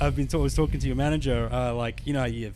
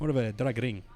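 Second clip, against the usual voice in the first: mock Spanish accent with rolled R. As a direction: roll the R in "ring" like a Spaniard. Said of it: "it was like the rolling R's".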